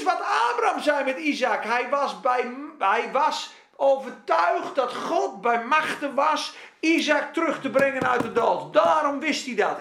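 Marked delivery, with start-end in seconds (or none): none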